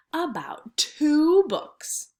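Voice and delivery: slow, secretive whisper. Shown as a demonstration. Teacher whispering to her class, slow hushed whisper. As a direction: lean in and whisper it slowly.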